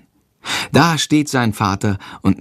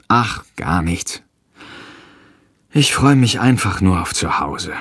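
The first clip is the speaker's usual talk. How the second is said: langsam, gedämpft, leicht bedrückt; 3 semitones lower than usual. A narrator's reading. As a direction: eine Mutter, die ihren Kummer verbirgt. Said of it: "Sie wirkt bedrückt". (Mutter wimmelt die Frage des Sohnes ab, leise bedrückt)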